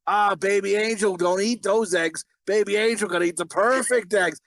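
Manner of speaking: mimicking a brother cooing at his dog; doting dog talk. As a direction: coo over the dog like a baby. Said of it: "He's like".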